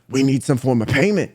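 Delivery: lightly deepened tough-guy voice; low menacing demand. Retold or imitated. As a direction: imitate a deep-voiced shakedown. Same demand, acted once more.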